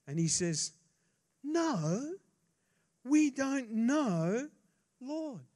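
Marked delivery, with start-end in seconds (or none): 1.4-5.5 high, loud, exasperated disciple voice, slow at first; Thomas protesting. Acted. Thomas protesting to Jesus that they don't know the way, high and exasperated. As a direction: play Thomas, baffled and pushing back.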